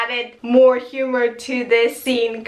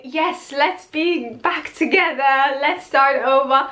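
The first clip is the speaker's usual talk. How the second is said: retold hopeful eagerness; 2 semitones higher than usual. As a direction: voice his eager hope, lightly acted. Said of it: "that hope".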